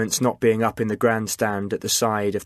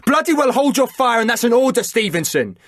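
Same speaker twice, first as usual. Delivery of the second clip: much higher, loud furious command; shouted order; 12 semitones higher, 5 dB louder than usual. A narrator's reading. Liam ordering Chris to cease fire, furious shout. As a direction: roar it as a final order. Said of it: "shouted Liam".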